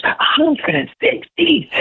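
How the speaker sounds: high, slow disbelieving echo; incredulous. Retold or imitated. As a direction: drag it out like you can't believe it. Cop repeats speed in disbelief.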